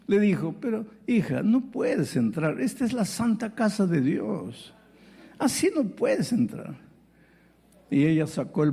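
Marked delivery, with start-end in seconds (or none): 0.6-6.9 a falsely kind, preachy deacon voice; sugary scolding, lightly voiced; mock sweet deacon. Deacon turning the woman away, mock sweet. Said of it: "con todo amor, entre comillas".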